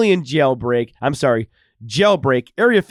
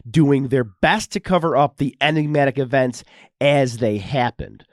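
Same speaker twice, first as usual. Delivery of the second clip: dramatic documentary narrator read; 2 semitones higher than usual. Acted. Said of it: "with my awesome narrator voice".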